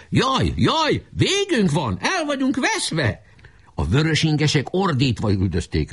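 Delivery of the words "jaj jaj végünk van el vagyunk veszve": high, drawn-out wail of pretended doom; mock panicked cries. Boys feign defeat to lure enemy, wailing high. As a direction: cry out as if all is lost. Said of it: "még ilyeneket is kiabáltak".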